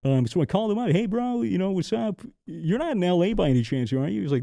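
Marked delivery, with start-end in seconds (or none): 0.9-4.2 chummy hello. Retold or imitated. Phone call to friend retold.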